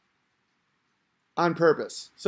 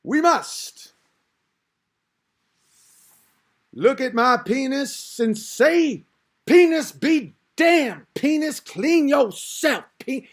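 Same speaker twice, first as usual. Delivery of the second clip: high, slow, loud preaching; Farrakhan sermon voice; 6 semitones higher, 3 dB louder, slower than usual. Retold or imitated. Imitating Farrakhan commanding his followers, slow, high and loud. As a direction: roll it out like a fiery sermon. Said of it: "It's the way he's talking".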